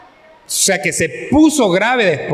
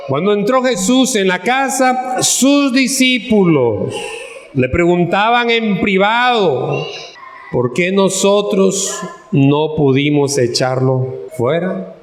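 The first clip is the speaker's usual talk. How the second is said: scripture reading; slower than usual. Acted. Preacher reads the disciples' private question, deliberate scripture reading. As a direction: read the verse out deliberately, phrase by phrase. Reads the Bible verse aloud.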